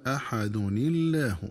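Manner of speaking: "أحد الله" said "ahadun-illah" with a thin lam; slow link with kasra tanwin; كسر نون التنوين. Shown as a demonstration. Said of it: "بكسر نون التنوين". (أحد الله بكسر التنوين وحذف همزة الوصل)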